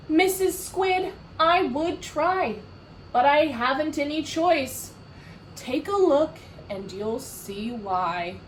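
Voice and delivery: a lightly voiced sulky fish; glum fish. Fish answering the squid, lightly voiced glum.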